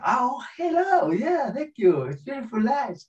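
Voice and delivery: very high, sugary gushing; fake cheerful presenter. Presenter faces the cameras, falsely delighted. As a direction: put on a squeaky happy on-camera voice.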